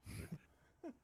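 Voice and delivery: high, loud showman call; arena announcer. Acted. The host hushing the arena for Chunk, high announcer call.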